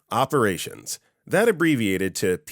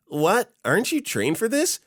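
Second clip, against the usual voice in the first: whiny boss voice; 13 semitones higher than usual. Retold or imitated. Plops voiced in anecdote.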